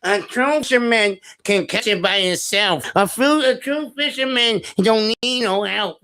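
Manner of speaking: mocking his brother's boast about true fishermen, lightly voiced; mock proud fisherman. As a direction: puff up like a smug know-it-all. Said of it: "he's telling".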